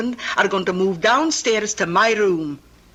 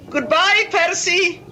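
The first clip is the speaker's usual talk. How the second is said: calling out teasingly; 10 semitones higher, 3 dB louder than usual. Acted. Teasing farewell called out.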